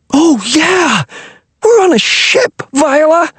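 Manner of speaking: high excited crow; gleeful high-pitched boy crowing. A narrator's reading. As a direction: crow it out, delighted. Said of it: "crowed Wilmer".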